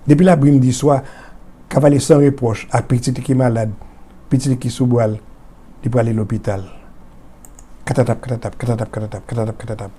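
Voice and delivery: measured verse fading into soft hoofbeats; rhythmic poem recitation. A narrator's reading. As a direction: let the galloping refrain die away. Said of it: "l'onomatopée donne le rythme de circonstance".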